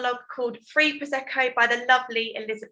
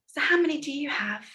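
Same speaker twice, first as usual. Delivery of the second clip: smug mother-to-be; 6 semitones higher than usual. Acted. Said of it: "the Virgin Mary turned around and said".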